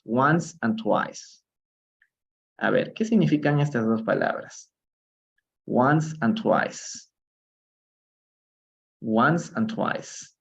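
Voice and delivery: "Once and twice" drawn out very slowly and clearly; slow model. Shown as a demonstration. Teacher modeling vocabulary for the class, very slow. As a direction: stretch out "Once and twice" for learners to copy. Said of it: "teacher models new vocabulary".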